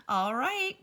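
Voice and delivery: Amelia Bedelia calling out to the ladies, loud. A narrator's reading. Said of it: "called Amelia Bedelia".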